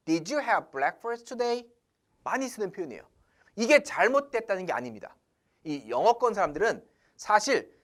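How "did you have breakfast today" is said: slow example. Shown as a demonstration. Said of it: "이런 표현들 많이 쓰죠".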